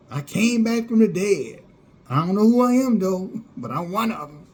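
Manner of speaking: lampoon the self-proclaimed remnant; mocking camp member. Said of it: "That's exactly how they talk".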